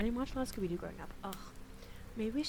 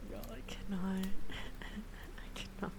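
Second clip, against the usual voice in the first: breathless laughter; laughing. Real, not acted. Laughing helplessly.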